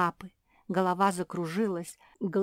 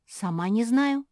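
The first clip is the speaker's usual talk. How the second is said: exclaim; 4 semitones higher, 5 dB louder than usual. Acted. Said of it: "воскликнула мопсишка".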